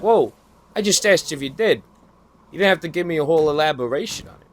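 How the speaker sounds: a retold indignant comeback, quick at the end; taken aback. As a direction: push back, stung and defensive. Retorting to a snippy coworker.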